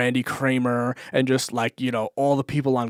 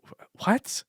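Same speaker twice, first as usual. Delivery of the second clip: taken aback; 10 semitones higher than usual. Retold or imitated. Taken aback by his claim.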